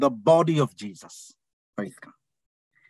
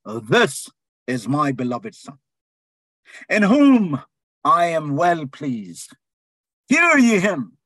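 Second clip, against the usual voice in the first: a light take on the voice of God from the cloud; voice from heaven; 2 semitones lower, slower than usual. Acted. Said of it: "a voice out of the cloud which said".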